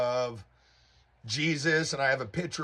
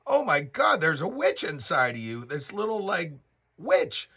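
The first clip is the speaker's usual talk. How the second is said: amazed discovery; 4 semitones higher than usual. Retold or imitated. Telling girlfriend she sees a witch.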